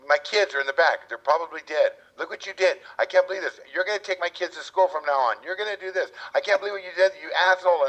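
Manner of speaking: high-pitched mock rant at the driver; mock screaming lady. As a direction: squeal it like a furious lady. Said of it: "screaming at me".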